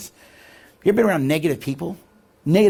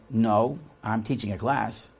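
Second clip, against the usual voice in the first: low, softer, terse on the phone; curt phone reply; 4 semitones lower, 7 dB quieter, slower than usual. Retold or imitated. Teacher cutting short a call from his wife, curt. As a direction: brush off the caller under your breath.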